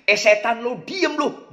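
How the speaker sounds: a touch of an angry snap; mock a husband snapping back. Husband snapping at his nagging wife, mildly angry. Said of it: "suaminya marah".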